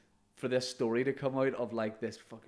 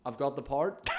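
joking claim; 2 semitones higher than usual. Retold or imitated. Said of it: "I'm saying it as a joke".

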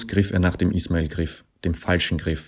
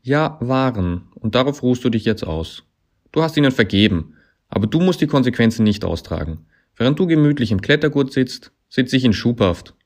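high, loud accusing rebuke; reproachful; 7 semitones higher, 7 dB louder than usual. A narrator's reading. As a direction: hurl the blame at him loudly. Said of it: "warf ihm der Ismail Klettergriff vor".

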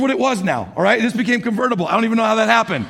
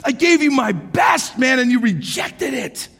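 mock irate; 4 semitones higher than usual. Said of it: "so frustrated, man, and just, like, irate".

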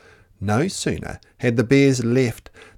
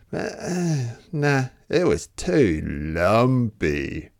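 disgusted; slower than usual. Acted. Goldilocks tastes lumpy porridge.

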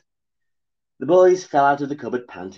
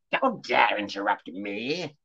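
slow, menacing crone warning; growl; slower than usual. Acted. Crone growling at Johnny for interrupting. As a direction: growl it down at him. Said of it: "growled the crone".

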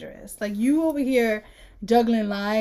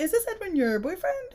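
prying dad; 6 semitones higher than usual. Retold or imitated. Mocking the dad's prying questions.

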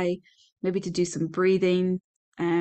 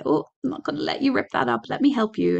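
put-on gentle, higher, soothing voice to a child; really gentle; 5 semitones higher than usual. Shown as a demonstration. Parent gently stopping a child ripping something up, high and soothing. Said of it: "really gently, as gently as possible".

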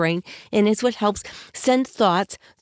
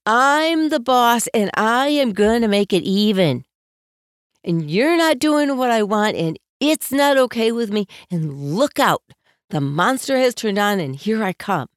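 imitated bossy yell; 3 dB louder than usual. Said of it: "screaming or just with top of their volume".

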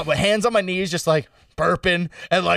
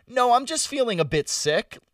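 higher, polite and carefully composed; very calm; 8 semitones higher than usual. Retold or imitated. Sick passenger answering the driver, very calmly. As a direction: imitate playing down your nausea with studied calm. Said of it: "I said it very calmly".

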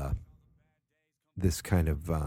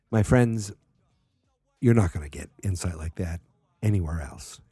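mock hype; 6 dB louder than usual. Mock hype pitch to listeners.

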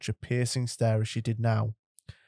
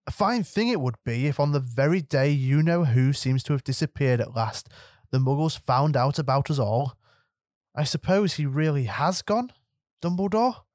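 higher-pitched anxious witch; stern professor; 3 semitones higher than usual. Acted. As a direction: press the old wizard for news. McGonagall's voice in the story.

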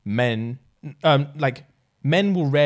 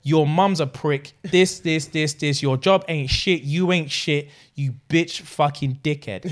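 acted angry tirade; 2 semitones higher, slower than usual. Acted break-up quarrel with John.

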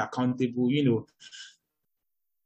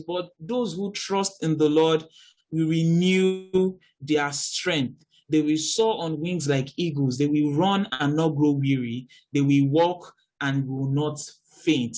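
slow, solemn verse reading; scripture reading; slower than usual. Acted. Preacher reading Isaiah to grieving listeners, slow and solemn. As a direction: let the promise land slowly.

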